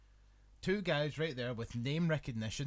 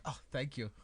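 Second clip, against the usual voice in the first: mild German impression. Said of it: "sounded German in my impression of him".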